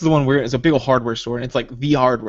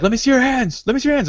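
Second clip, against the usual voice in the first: mock police command; 13 semitones higher than usual. Players in a police car ordering a stranger, high mock cop yell.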